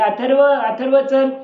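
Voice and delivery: father calling his son for ice cream. Acted. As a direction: call the boy with good news. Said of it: "त्यांनी आवाज दिला".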